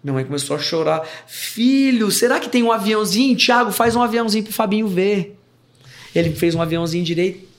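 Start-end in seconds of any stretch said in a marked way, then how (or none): 1.3-5.4 high-pitched, eager mum voice; imitated coaxing mother. Mother asks brother for paper plane, eager coaxing. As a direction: coax a small child with raised pitch.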